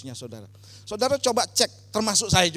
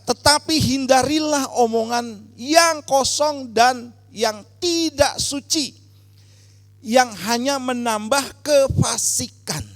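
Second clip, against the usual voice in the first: slow, loud, raised declamation of a verse; solemn, emphatic Bible reading to a congregation; scripture reading; 5 semitones higher, 5 dB louder, slower than usual. Real, not acted. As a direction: read the verse out deliberately, stretching key words. Reads a Bible verse aloud.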